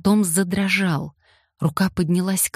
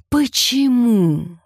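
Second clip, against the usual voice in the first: repeated again; 7 semitones higher, 5 dB louder, much slower than usual. A narrator's reading. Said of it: "повторил он вновь".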